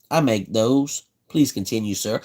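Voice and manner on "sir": ordinary delivery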